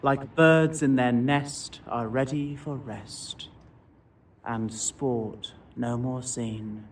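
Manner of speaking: measured, lilting verse reading; poem recitation. Acted. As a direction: read the poem with gentle rhythm. Reciting Blake poems aloud.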